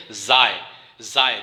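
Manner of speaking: "زائے" as one syllable, zaa gliding to ee; Chinese pronunciation. Shown as a demonstration. Teacher modelling for students, Chinese pronunciation "زائے" as zai. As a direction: say "زائے" with z and a long gliding vowel. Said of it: "Chinese pronunciation میں ہم کہتے ہیں".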